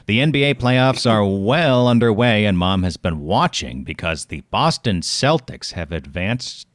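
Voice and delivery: mock anchor sports report; news read. Reads sports news copy.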